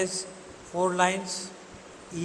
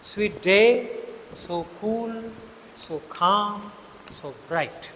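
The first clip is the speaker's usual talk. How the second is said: "sweet", "so" lighter, "day", "cool", "calm", "bright" stressed; alternating iambic stress; much slower than usual. Shown as a demonstration. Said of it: "एक को धीरे". ("sweet", "so" धीरे, "day", "cool", "calm", "bright" पर ज़ोर)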